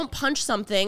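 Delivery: normal talking voice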